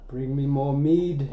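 viking. Pretend. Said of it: "we're just doing Skyrim".

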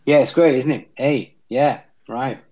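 light, half-hearted Kiwi accent; a hint of New Zealand, tag questions lifted. Shown as a demonstration. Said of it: "Kiwis will say".

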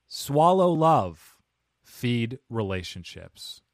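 slow, drawn-out robot voice, a bit nasal; nasal robot reading. Shown as a demonstration. Host reading the robot's quote as a robot. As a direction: read it like a robot oracle, slowly. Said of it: "I read that a little nasally".

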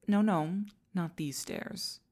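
imperious "no"; urgent correction. Acted. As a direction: stop the servant heading the wrong way. Corrects servant's wrong turn.

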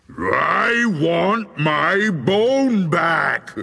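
huge, high, drawn-out ghostly roar, very slow; very angry, loud voice. A narrator's reading. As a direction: bellow it so the house shakes, stretching each word. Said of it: "Now it sounded very angry".

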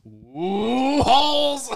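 mocking scared voice. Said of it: "It's like".

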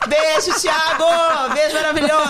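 beam it out like a live on-air shout-out; excited shout-out. Real, not acted. On-air shout-out to sponsor Thiago.

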